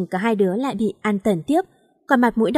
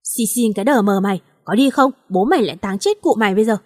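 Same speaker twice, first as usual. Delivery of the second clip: angry threat; faster than usual. Acted. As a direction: snap at him to get moving or else. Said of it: "bực mình trợn mắt lên".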